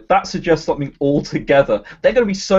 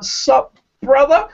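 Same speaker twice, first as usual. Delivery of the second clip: mock bro greeting; 9 semitones higher, 4 dB louder, slower than usual. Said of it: "and he's like".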